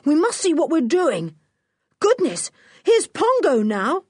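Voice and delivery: put-on high, urgent boy's call; yelling. A narrator's reading. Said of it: "he yelled".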